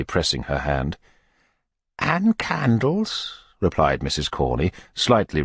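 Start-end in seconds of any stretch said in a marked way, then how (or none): 2.0-3.4 coy. Acted. Missus Corney voiced.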